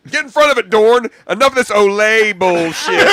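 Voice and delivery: yelling coach. Retold or imitated. Quoting the coach yelling at Dorn.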